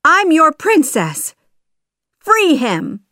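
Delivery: high, loud royal command; commanding cry. A narrator's reading. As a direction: cry out to stop the guards. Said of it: "the girl cried".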